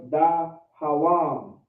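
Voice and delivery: DAHAWAM very slow, syllables held apart; slow demonstration. Shown as a demonstration. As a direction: draw out "dahawam" piece by piece. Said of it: "I'm just saying it a little faster".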